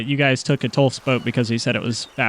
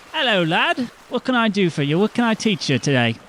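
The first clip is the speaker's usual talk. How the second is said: a touch higher, kindly village teacher; lightly raised teacher voice; lightly voiced teacher; 5 semitones higher than usual. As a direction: greet the boy like a friendly teacher.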